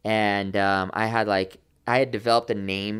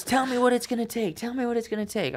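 high-pitched, pressing plea; insistent recruiter; 11 semitones higher than usual. Retold or imitated. Recruiter pressing him to name his price, insistent. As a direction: mildly imitate an eager, insistent recruiter.

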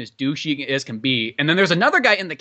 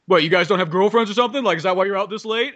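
mocking cop interrogation; 4 dB louder than usual. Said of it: "he's just kinda going".

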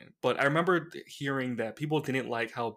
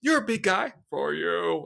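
lightly voiced theatrical villain; Bane impression; 2 semitones higher than usual. Showing how he talked all movie, villain voice. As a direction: mimic a lilting villain with a slight lift. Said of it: "he just talked like that".

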